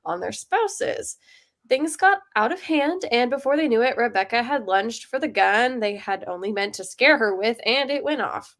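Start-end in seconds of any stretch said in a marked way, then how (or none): 1.7-8.5 measured, suspenseful story reading; story narration. A narrator's reading. Writer reading their dark story to the group, measured narration. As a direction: read it out as a short crime tale. Reads own story aloud.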